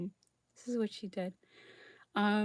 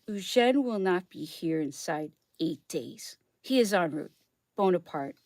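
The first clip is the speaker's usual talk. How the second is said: letter reading. Acted. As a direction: read it like a formal historic letter. Reads Napoleon's letter aloud.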